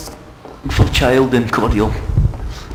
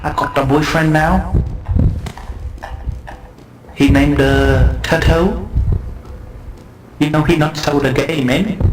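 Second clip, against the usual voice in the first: much higher, whiny voice of the jilted friend; betrayed lover's voice; 7 semitones higher than usual. Acted. Old friend complaining he was abandoned, high and whiny. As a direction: squeak it out like a hurt ex. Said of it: "he looks at me and says".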